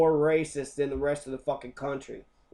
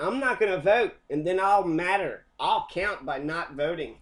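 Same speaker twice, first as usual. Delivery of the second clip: mock non-voter; 2 semitones higher than usual. Mocking people who refuse to vote, smug and dim. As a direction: sound smugly clueless.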